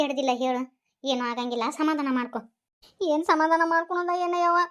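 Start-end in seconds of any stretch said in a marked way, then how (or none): 0.0-2.4 soft reassurance. Acted. Consoling worried grandmother.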